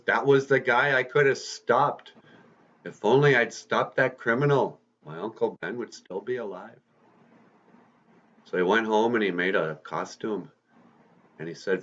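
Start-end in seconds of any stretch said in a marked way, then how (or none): 0.0-6.8 mildly acted anguish, starting high, dropping off; a touch of tearful regret. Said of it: "with tears in his eyes".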